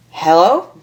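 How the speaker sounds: lightly voiced call from a window. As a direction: call out into the dark, unsure. Calling from the window above.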